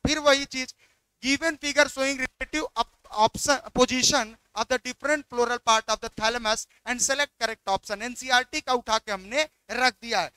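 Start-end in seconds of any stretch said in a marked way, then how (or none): 1.2-8.0 reading the question out very slowly; slow, deliberate exam-question read. Acted. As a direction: spell out each word of the question.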